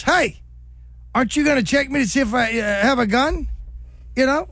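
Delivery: high, quick mock Costner voice; imitating Costner. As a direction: pitch it up and rush as Costner. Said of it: "Costner looks at him and goes".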